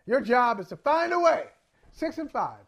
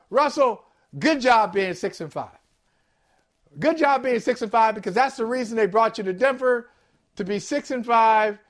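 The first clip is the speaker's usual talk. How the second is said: fake apology. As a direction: drag out the backhanded compliment. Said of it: "no, that doesn't work either".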